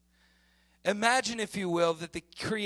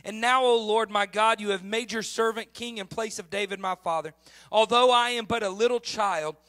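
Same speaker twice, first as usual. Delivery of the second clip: scripture reading; 2 semitones higher than usual. Shown as a demonstration. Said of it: "I wanna read this for you".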